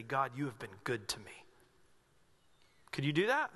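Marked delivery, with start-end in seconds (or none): 0.0-1.4 whispered prayer to God; hushed prayer. Pretend. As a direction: breathe it like a quiet prayer. Imagined worship prayer, whispered.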